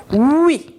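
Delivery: drawn-out teacher's oui; sound demo. Shown as a demonstration. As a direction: model the sound oui clearly for the class. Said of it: "Le son".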